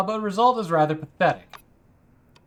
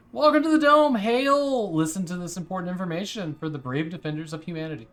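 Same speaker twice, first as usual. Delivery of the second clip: excited recruiter; 3 semitones higher than usual. Acted. Reading the recruiter's lines aloud.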